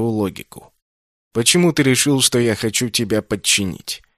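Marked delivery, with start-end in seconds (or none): 1.3-4.0 haughty retort. Acted. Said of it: "Надменно возразил Инсанна".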